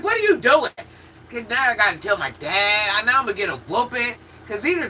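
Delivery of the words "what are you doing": high yelling panic; panicked shout. Retold or imitated. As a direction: shout it in alarm. Panicked shout at friend, retold.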